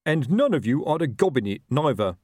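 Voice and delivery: mild officious shout. A narrator's reading. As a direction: call it out as a suspicious boss. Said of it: "shouted Colon".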